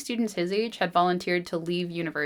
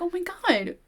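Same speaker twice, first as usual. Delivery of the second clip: exasperated; 11 semitones higher than usual. Retold or imitated. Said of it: "she's like".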